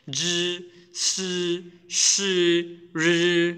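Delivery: জি সি রি said with the tongue curled back; teacher drills জি সি রি with the tongue tip curled up; Chinese retroflex demo. Shown as a demonstration. Teacher to learners, curling the tongue for জি সি রি. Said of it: "ওই জায়গায় জিহ্বাটা রেখে এগুলো উচ্চারণ করবেন".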